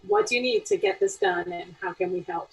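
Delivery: low-pitched, patient offer of help; understated patient mentor tone. Acted. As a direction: ask calmly, keeping it contained. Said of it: "much more patient and listening".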